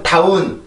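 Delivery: 다운 slow and flat; wrong slow down. Shown as a demonstration. Teacher showing a wrong way. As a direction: stretch 다운 evenly with no stress. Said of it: "이렇게 발음을 하면 안 되고".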